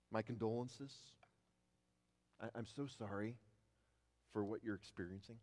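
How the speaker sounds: soft, measured sympathy; condolences. Acted. Preacher imagining a letter to sufferers, softly sympathetic. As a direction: offer hushed, halting condolences. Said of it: "the, the normal greetings that we hear".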